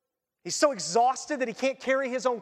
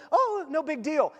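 slow, shrugging "no big deal"; preacher mocking a careless believer, slow and shrugging; mock casual; 5 semitones higher than usual. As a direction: play it off like it's nothing.

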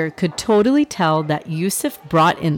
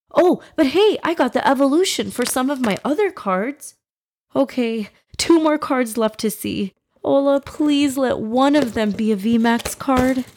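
put-on boy voice; 4 semitones higher than usual. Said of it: "Yusuf opening cards".

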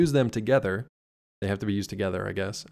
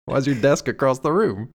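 shouting; 3 semitones higher, 5 dB louder than usual. Acted. Acting out the show's opening chaos.

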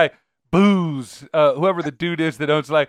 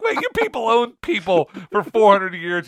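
laughing retort; 4 semitones higher than usual. Retold or imitated. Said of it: "I'm like".

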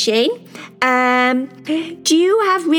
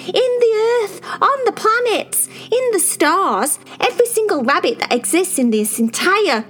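higher, louder, rising to an exasperated squeal; indignant outburst; 13 semitones higher, 4 dB louder than usual. Acted. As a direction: protest the unfairness with building outrage. Cherry indignant, defending herself.

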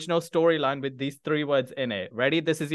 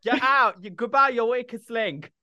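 gleeful elimination; 8 semitones higher than usual. Real, not acted. Host gleefully eliminates contestant.

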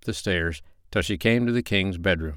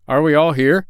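raised, louder doctor's voice; the doctor's question; 8 semitones higher, 8 dB louder than usual. A narrator's reading. Doctor checks on his animals in the dungeon, raised and questioning. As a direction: ask it high and loud to the group. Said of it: "asked the doctor".

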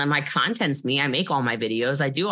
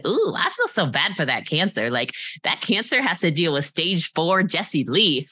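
laughing quote. Retold or imitated. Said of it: "somebody said".

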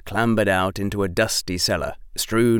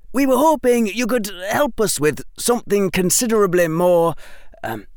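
higher, quick, sly schoolboy pitch; sly young Fred; 10 semitones higher, faster than usual. Acted. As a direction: tempt the old man with a secret. Fred voiced in story.

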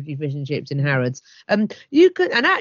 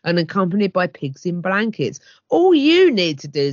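promotional read; 5 dB louder than usual. Acted. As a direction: sell it like an advert. Reads out chef's promotional copy.

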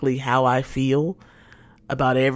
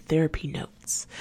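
whispered; 6 dB quieter, slower than usual. Real, not acted. Whispered topic reveal.

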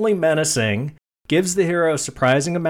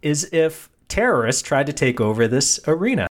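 lightly voiced wife, higher at first; a hint of a wife pitching an idea; wife nudging husband; 4 semitones higher than usual. Wife nudging husband in the box seats, lightly imitated. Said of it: "she nudges him and goes".

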